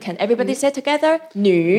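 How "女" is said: 女 dipping down then up, loud; third tone demo. Shown as a demonstration. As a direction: sing 女 low then rising. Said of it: "it's a third tone".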